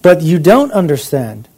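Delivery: quoted taunt, lightly mocking. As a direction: needle them lightly with mock challenge. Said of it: "mocking them to a certain degree".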